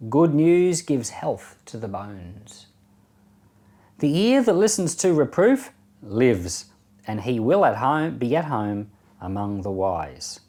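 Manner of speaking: slow, measured Bible reading with pauses; scripture reading. Acted. Reading the proverbs of chapter fifteen to listeners, measured scripture reading. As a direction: read each proverb out deliberately, line by line.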